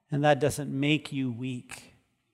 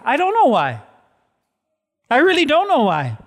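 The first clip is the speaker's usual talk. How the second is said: impassioned admission; 11 semitones higher, 8 dB louder than usual. Real, not acted. Pastor confesses not knowing.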